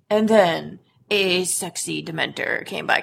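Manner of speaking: slow, low sultry narration; sexy voice. Pretend. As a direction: purr it out like a seducer. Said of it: "can be like".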